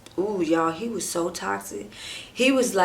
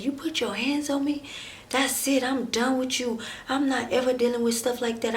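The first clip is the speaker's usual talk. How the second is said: higher-pitched firm warning; retold ultimatum; 5 semitones higher than usual. Woman breaking up with boyfriend who hit her, indignant warning. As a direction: lay down the line, mildly indignant.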